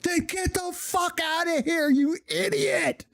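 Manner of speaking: high, barking mock yell from a drill instructor. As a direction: bark it like a furious drill sergeant. Drill instructor yelling at recruit.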